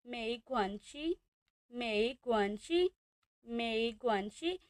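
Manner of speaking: मेई गुआनची slow and drawn out; Chinese tones. Shown as a demonstration. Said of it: "मेई पर आ रही है second tone". (धीरे धीरे मेई गुआनची)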